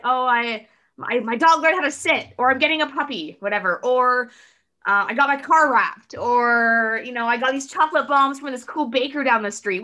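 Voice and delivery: bubbly, high and loud friend voice; excited sharing. Retold or imitated. Friend telling what made their week, excited. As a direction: gush about little wins.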